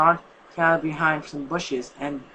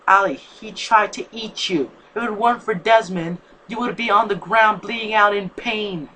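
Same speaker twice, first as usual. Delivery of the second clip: louder, higher angry argument; growling; 5 semitones higher, 5 dB louder than usual. Acted. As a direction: argue back with a growl in the voice. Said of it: "Bernard still growled and said".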